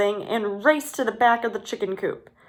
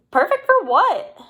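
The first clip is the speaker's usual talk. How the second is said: higher, louder irritated fox; angry question; 9 semitones higher, 5 dB louder than usual. A narrator's reading. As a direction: snap the question back, annoyed. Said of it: "the fox angrily asked".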